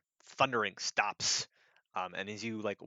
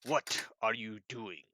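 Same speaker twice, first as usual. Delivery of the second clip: slow suspicious giant; 5 dB quieter than usual. Acted. Giant questions player.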